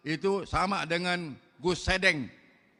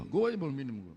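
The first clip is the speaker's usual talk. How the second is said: softer, dropped repeat of gua aja belum minum gua; "Gua aja belum minum gua" said again much softer and lower; quiet repeat; 7 semitones lower, 7 dB quieter, faster than usual. Real, not acted. Preacher teasing the crowd about the cake, said softly.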